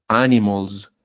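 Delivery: "Animals" with a buzzing final z; Z ending. Shown as a demonstration. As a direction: finish "Animals" on a voiced z. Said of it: "estoy diciéndolo con una Z". ("Animals" con z sonora al final)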